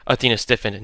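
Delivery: usual speaking voice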